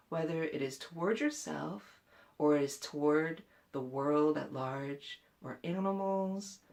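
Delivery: gentle guided meditation voice, slowing on key phrases. Real, not acted. Facilitator guiding listeners to breathe with hand on heart, gentle meditation voice. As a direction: ease them into compassion, unhurried at phrase ends.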